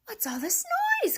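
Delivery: high, clucky hen voice; clucked. A narrator's reading. Hen questioning the commotion, clucking. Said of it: "clucked Henny Penny".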